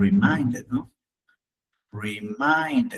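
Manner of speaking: "Reminded" in clear syllables, re-MINE-ded; model pronunciation. Shown as a demonstration. Teacher repeats the correction, modelling the pronunciation. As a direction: sound out "Reminded" with a long i and full -ed. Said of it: "Así sería".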